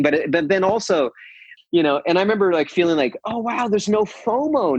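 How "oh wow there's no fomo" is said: mild surprise. Real, not acted. Realizing no fomo.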